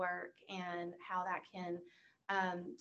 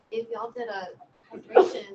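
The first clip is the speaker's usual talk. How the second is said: laughing; 2 semitones higher, 12 dB louder than usual. Real, not acted. Laughs mid-suggestion about water.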